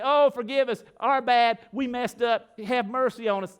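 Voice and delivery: high, loud plea for mercy; acted pleading, pitched high; mock begging. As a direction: grovel in hammed-up apology. Acts out begging Pharaoh for mercy.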